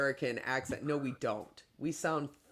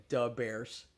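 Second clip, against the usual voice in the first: imitating a Chicago sports fan accent; "da Bears" in Chicago talk; 4 semitones lower than usual. Quoting the comedy skit, Chicago accent. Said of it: "just talk like Chicagoans".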